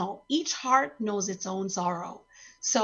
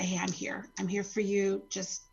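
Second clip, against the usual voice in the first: soft sincere support; 3 semitones lower, 4 dB quieter than usual. Shown as a demonstration. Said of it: "it's better to just say".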